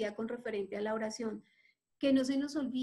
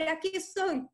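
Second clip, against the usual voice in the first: raised, higher call to be noticed; crying out; 5 semitones higher than usual. Acted. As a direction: call out over the crowd. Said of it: "empezó a gritar".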